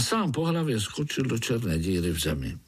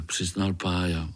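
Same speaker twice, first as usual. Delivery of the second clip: usual speaking voice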